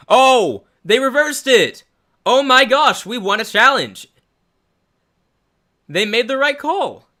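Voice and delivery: high-pitched, loud, elated shrieks; shrieking jackpot winner. Real, not acted. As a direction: scream with disbelieving joy. Overturned challenge, fan erupts.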